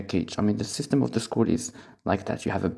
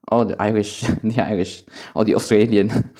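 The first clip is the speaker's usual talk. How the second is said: louder, laughing through the words; amused; 6 dB louder than usual. Real, not acted. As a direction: list them with a laugh breaking in. Amused while listing English accents.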